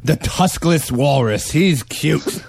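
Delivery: slow, high, playful showman voice; mock show barker. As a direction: present a silly creature to the crowd. Hawking imaginary freak animal show.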